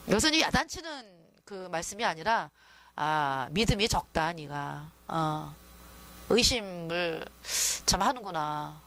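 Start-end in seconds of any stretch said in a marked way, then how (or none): 3.0-8.8 gentle Jesus. Retold or imitated. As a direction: tell him kindly, no scolding at all. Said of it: "아, 이 말씀이죠". (낮고 부드럽게 타이르는 예수님)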